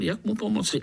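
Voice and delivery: usual speaking voice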